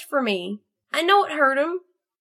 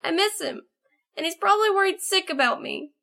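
put-on high, tearful young pony voice; sobbing, acted; 5 dB quieter, much faster than usual. A narrator's reading. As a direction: plead through acted sobs, pitched high. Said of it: "Snowbolt began to sob".

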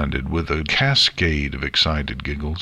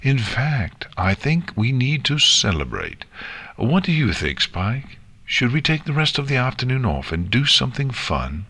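lightly voiced cheerful guardian, pitched up; upbeat Twilight; 6 semitones higher than usual. Twilight proposes celebrating to Spike, upbeat. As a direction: lift the voice as if proposing a treat.

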